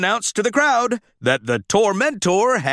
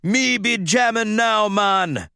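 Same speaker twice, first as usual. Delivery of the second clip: put-on taunting Jamaican accent; 5 semitones higher than usual. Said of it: "the other truck taunted".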